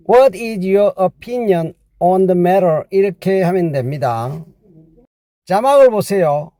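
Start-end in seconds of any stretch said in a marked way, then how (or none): 0.1-2.8 very slow, every word spelled out; teacher's slow demo read; slow English model sentence. Shown as a demonstration. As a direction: say it slowly for learners to copy. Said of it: "영어로 하면요".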